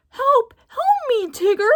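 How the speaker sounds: a very high, loud scream for help. Acted. Roo stuck in the bridge, screaming high for help. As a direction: scream in panic for rescue. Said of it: "Tigger heard a scream".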